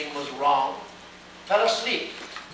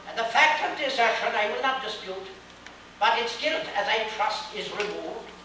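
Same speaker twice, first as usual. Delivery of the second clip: Snark pleading; 3 semitones higher than usual. Acted. Snark defends the pig in court.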